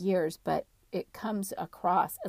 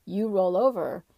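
insistent, louder at the start; adamant; 4 dB louder than usual. Retold or imitated. Female spirit ordering her to roll over, adamant. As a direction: insist firmly, imitating a stubborn order. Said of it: "she gets adamant and she says".

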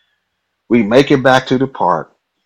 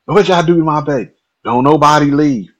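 higher, louder, fast frantic demand; panicked mother; 6 semitones higher, 5 dB louder than usual. Retold or imitated. Mom demands answers about her hurt son, frantic. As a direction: repeat it near hysterical.

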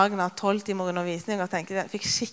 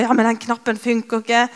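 frustrated; 2 semitones higher, 7 dB louder than usual. Retold or imitated. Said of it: "ble mer og mer frustrert".

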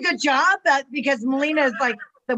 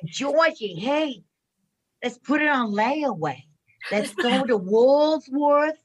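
Val impression. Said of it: "do another impression of, um, Val".

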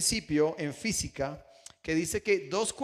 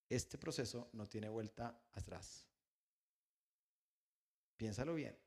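grave warning; 5 semitones lower, 13 dB quieter than usual. Retold or imitated. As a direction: make the son weigh it carefully.

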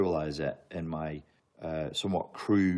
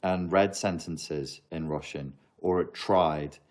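ordinary talk

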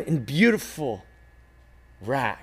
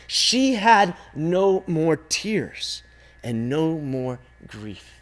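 usual speaking voice

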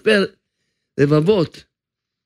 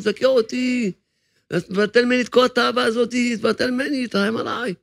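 pleading soul; 5 semitones higher than usual. Acted. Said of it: "הנשמה שלו תגיד לו". (נשמה מתגעגעת, מתחננת ונחלשת)

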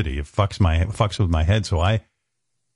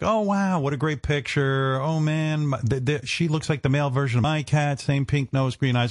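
lightly mimicked high gushing praise; gushing commenters; 5 semitones higher, 3 dB quieter than usual. Nice commenters to Beth, a mild gushing coo. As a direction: coo over the cat picture.

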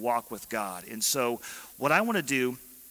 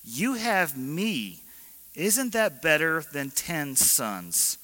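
smug husband; 2 semitones higher, slower than usual. Retold or imitated. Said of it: "Look at this".

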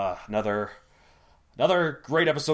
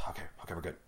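collecting himself; 10 semitones lower, 17 dB quieter, much faster than usual. Real, not acted. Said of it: "collect myself here".

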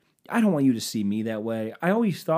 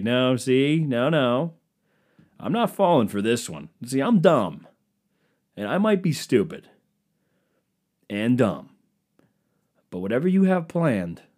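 mock suspicious refusal; 2 semitones higher, 4 dB louder than usual. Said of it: "I would be like".

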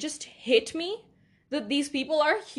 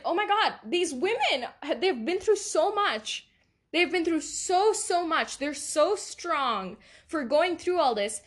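higher-pitched, emotional retelling of being overwhelmed; 5 semitones higher than usual. Retold or imitated. Podcaster recalling her reaction to women's suffering, emotional. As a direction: relive being overcome, voice pitched up. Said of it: "I was so emotional".

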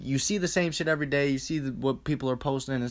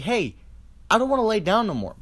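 higher, louder, fast body protest; the body complaining, pitched up and rushed; body talking back; 6 semitones higher, 3 dB louder, faster than usual. Retold or imitated. Body pleads with the lazy sleeper, high and fast. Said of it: "your body is like".

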